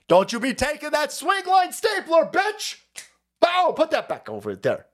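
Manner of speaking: high, squealing mock threat over a stapler; mock shrill yell. Fired reporter shrieks at boss over a stapler, mock yell.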